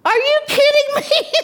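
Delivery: high, loud, laughing through the question; laughing disbelief. Retold or imitated. Asking the Lord if he's kidding, laughing. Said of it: "I'm like".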